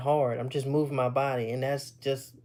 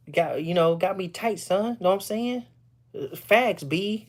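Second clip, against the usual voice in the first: put-on New York street talk; New York slang accent; 5 semitones higher than usual. Showing how people from New York talk, mock New York accent. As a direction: imitate a New Yorker, pitch lifted. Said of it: "when they be talking like that".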